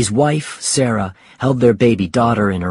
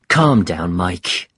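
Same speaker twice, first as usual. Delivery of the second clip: calming; 4 semitones lower, slower than usual. Acted. Jim calming an angry friend.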